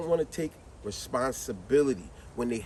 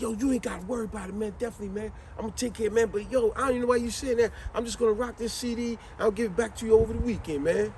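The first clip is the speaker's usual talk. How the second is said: lightly higher, fast and casual; carefree friend; 5 semitones higher than usual. Retold or imitated. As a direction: brush off the worry. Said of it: "He said".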